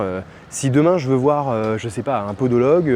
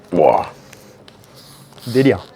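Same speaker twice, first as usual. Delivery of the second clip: surprised; 4 semitones lower, 5 dB louder, slower than usual. Real, not acted. Finds bottle cap tethered.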